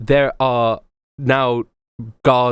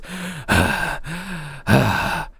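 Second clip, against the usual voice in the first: weary sigh; 4 semitones higher, 3 dB quieter than usual. Acted.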